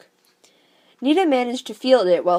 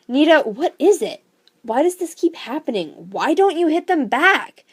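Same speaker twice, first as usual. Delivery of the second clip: pressing father; 7 semitones higher, 3 dB louder than usual. Acted. Worried father pressing Nita.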